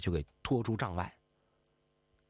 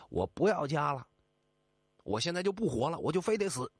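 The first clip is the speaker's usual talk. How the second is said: higher, heated outcry with a shrill edge at the end; angry retort; 6 semitones higher than usual. Acted. Captive turns and scolds his own attendants, heated higher outburst. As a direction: fling it back as a furious cry of defiance. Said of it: "转过头来骂".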